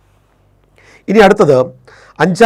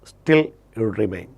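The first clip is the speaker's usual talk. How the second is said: slow dictation; 5 semitones lower, 5 dB quieter, much slower than usual. Shown as a demonstration. Teacher dictates the English rule.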